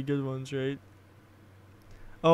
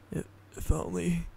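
sobbing; 5 dB quieter than usual. A narrator's reading. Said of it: "he sobbed".

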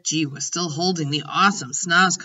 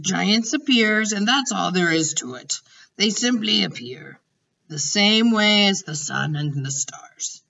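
lightly voiced matter-of-fact giant; 3 semitones higher than usual. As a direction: lightly play a giant explaining himself.

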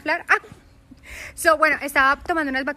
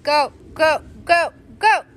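very loud, high "go, go" chant; loud cheering; 5 semitones higher, 8 dB louder, slower than usual. Real, not acted. Mom urging baby forward, loud and high. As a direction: push him on with a loud chant.

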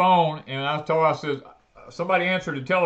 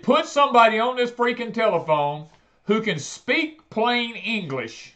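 angry demand; 5 semitones higher than usual. Retold or imitated. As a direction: demand it like you've lost patience. Yelling at phone rep.

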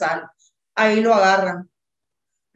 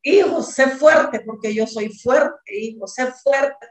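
slow, drawn-out call to a son; retold calling out; 2 semitones higher, 3 dB louder, slower than usual. Mother recalling her cry after the van to her son, retold calling out. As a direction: imitate urging him on, stretching the words. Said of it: "Y yo le gritaba".

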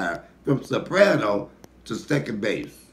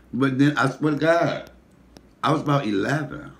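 ordinary delivery

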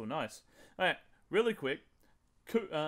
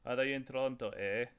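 bad mock Canadian accent, low; hammy Canadian accent on eh; 4 semitones lower, 3 dB quieter than usual. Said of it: "That was the worst Canadian accent ever".

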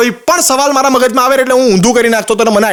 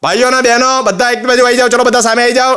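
announcing on mic; 3 semitones higher than usual. Retold or imitated. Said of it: "microphone હાથમાં લીધું".

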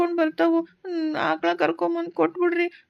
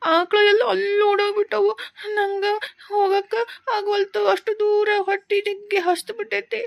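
put-on tearful boy; 2 semitones higher than usual. Boy tells the woman his troubles, tearful. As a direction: sob through the story of the cows.

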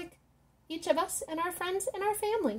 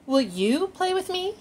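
higher, eager question to a new friend; small shark hopefully asking Angelfish to play; hopeful little shark; 5 semitones higher, 4 dB louder than usual. Acted. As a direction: ask sweetly, hoping for a yes.

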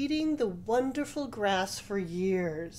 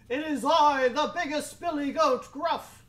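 loud, raised goat voice; biggest billy goat; 7 semitones higher, 7 dB louder than usual. A narrator's reading. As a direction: announce boldly as the biggest goat. Biggest goat answers the troll.

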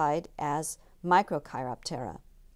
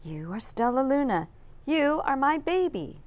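whispered; 7 semitones higher than usual. A narrator's reading. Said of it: "she whispered".

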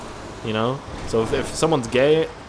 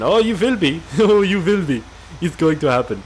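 high mock German threat; German accent; 5 semitones higher, 3 dB louder than usual. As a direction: insist gleefully in a fake German accent. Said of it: "I don't know why they're German".

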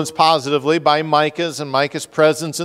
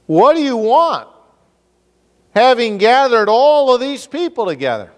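mock tribe of Dan; 9 semitones higher, 3 dB louder than usual. Micah confronting the Danites.

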